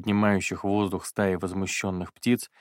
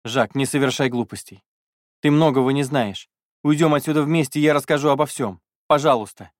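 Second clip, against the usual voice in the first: higher, louder desperate plea; pleading; 5 semitones higher, 5 dB louder than usual. Acted. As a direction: beg him through rising tears. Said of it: "взмолилась колдунья".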